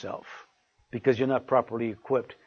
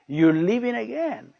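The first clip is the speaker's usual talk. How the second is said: high-pitched imitation of a complaining wife; wife's loud complaint; 7 semitones higher than usual. Wife objects as he goes out, imitated high-pitched complaint. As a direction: mimic the wife, pitched well up without shouting. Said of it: "don't say it so loud".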